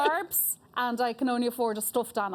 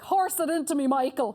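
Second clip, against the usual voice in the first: mock Irish bedroom talk; a hint of Irish lust, deadpan; mild mock come-on in an Irish voice; Irish bedroom line; 3 semitones higher than usual. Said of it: "you're in bed and you're like".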